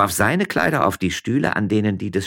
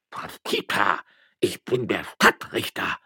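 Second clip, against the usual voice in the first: put-on slow, weighty old-man voice; self-important, halting warning; pompous old magistrate; slower than usual. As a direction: pull rank, drawing out every word. Magistrate pulls rank on her.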